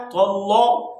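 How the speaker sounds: "तल्ला" with a heavy, rounded l; thick lam, wrong way. Shown as a demonstration. Teacher warning against heavy lam, "तल्ला" thickened. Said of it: "लाम को मोटा नहीं पढ़ना".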